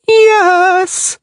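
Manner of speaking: high, surprised sung yes; astonished mermaid. A narrator's reading. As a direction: let it float up in wonder. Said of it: "Shinat said in astonishment".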